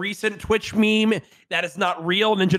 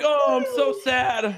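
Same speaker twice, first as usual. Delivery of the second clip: slow, whiny fake crying; hammed-up sobbing voice; mock sad; 6 semitones higher, slower than usual. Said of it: "He's like".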